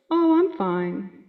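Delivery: slow, calm, reassuring as Gran; lightly voiced Gran brushing off worry; calm certainty. Gran reassuring family when asked, slow and calm. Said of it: "Always said with calm certainty".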